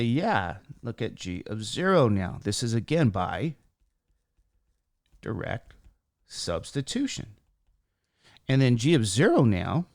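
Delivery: a squeaky, strained speaking voice. Real, not acted. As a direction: voice cracking into a squeak. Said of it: "sorry for my squeaky voice".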